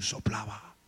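soft breath. Acted. God breathing on the body.

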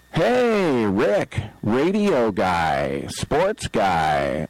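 quoting the fan. Retold or imitated. A fan hailing Rick in the restaurant, mildly voiced. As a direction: imitate her calling out to him, slowing down. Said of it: "And she was like".

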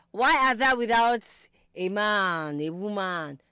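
theatrical plea, starting loud then settling; hammed-up old-English lament; mock lament. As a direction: bemoan it grandly, as if on stage. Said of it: "you're like".

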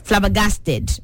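"Flabbergasted" with a clearly sounded -ted ending; spelling pronunciation. Shown as a demonstration. Host explaining the missed letters, "Flabbergasted" with a distinct ending. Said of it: "it's supposed to be D E".

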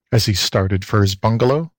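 plain reading voice

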